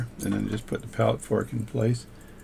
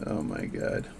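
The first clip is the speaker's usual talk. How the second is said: breathy whispered oh my God; whispered dread; 6 dB quieter than usual. Retold or imitated. Watchmaker recalling the tiny watch job, whispered. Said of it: "And I'm like".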